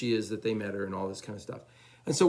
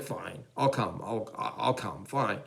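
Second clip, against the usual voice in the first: reluctant giving in; much slower than usual. Retold or imitated. Friend gives in after pleading.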